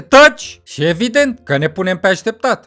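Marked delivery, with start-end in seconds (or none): 0.0-0.6 loud, rising "Taci!"; sharp shout. Acted. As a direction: shut him up at once. Boss hushes questions while tailing. (strigăt tăios)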